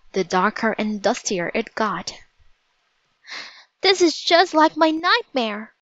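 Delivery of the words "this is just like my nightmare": high, frightened cry; Annie's nightmare coming true, voice rising in fear; fearful cry. A narrator's reading. Annie to Jack near the volcano, a high frightened cry. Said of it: "cried Annie".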